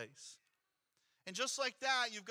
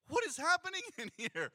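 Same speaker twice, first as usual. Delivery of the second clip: shocked outcry; 8 semitones higher, 5 dB louder than usual. Retold or imitated. Retold panic at burnt room.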